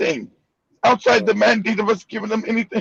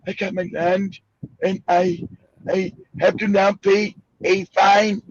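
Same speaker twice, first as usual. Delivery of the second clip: mock calm; 2 semitones lower than usual. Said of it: "African is sitting there all calm".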